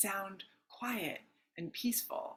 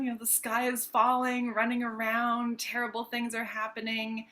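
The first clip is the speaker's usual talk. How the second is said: lightly voiced alarmed figure, higher pitch; a touch of running-around alarm; Chicken Little; 4 semitones higher, 3 dB louder than usual. Coach recalls the sky falling for listeners, mild Chicken Little alarm. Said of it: "Chicken Little, anyone?".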